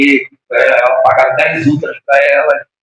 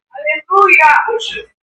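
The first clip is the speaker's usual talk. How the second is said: drawn-out hallelujah; much slower than usual. Real, not acted. Exclamação no meio da pregação.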